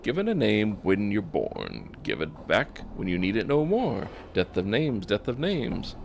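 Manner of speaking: lilting chant of the dustman; half-sung, swaying rhythm; lightly sing-song riddle. Acted. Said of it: "curious sing-song voice".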